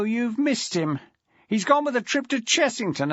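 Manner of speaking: put-on a deputy head greeting an old mate; Aaron Felton, jovial. A narrator's reading. Aaron Felton greeting Maxwell on the phone, jovial.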